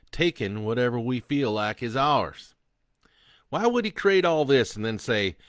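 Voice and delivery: loud, high, sneering convict; defiant killer taunting. Acted. Killer Sloan taunting the priest, loud and sneering. Sloan explains his God.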